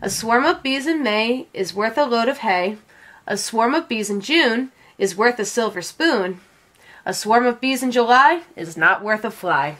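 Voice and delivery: measured, singsong rhyme delivery; reciting a rhyme. A narrator's reading. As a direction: recite it like an old saying. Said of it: "Then she recites".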